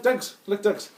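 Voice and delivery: mock Irish gypsy accent; imitated film accent. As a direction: lightly put on an Irish traveller accent. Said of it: "He talks like, like this".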